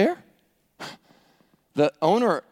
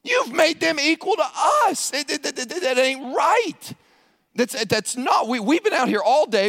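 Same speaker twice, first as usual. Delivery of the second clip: indignant workers; 6 semitones higher than usual. Acted. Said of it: "what is implied here".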